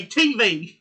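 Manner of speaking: loud, drawn-out T V; mocking imitation. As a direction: tease a friend by stretching T V. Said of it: "You say".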